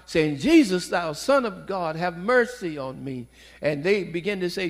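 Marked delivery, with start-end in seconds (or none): 0.4-3.3 mild retold crying out; retold cry for mercy. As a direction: call out the name, then ease off. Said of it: "and he cried out".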